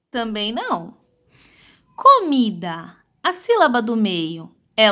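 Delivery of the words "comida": slow syllable-by-syllable reading; sílabas separadas. Shown as a demonstration. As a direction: sound out Comida as CO-MI-DA, slowly. Teacher sounds out word by syllables. (leitura silabada e lenta)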